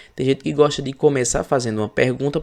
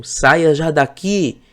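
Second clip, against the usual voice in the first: slow, louder order to get out; emphatic command; 5 semitones higher, 4 dB louder, much slower than usual. Shown as a demonstration. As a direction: bark Saia já daqui slowly, each word firm. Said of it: "eu tô falando com uma certa ênfase".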